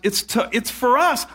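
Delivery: it's for us, with the stress on "for" and a lift at the end; mild stress on "for" in "it's for us"; retold emphasis. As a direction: lean on "for" as he did back then. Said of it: "I was emphasizing".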